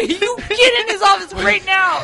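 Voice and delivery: loud, high, slow-stressed command through laughter; retold angry order. Woman sending co-worker to the boss, mock angry. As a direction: order him in, drawing out each word.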